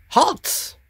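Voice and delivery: high, sharp goblin squawk; goblin guard. Acted. Goblin guard halting adventurers at the gate, high goblin squawk. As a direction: bark the order like a tiny goblin sentry. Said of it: "the goblin townsguard says".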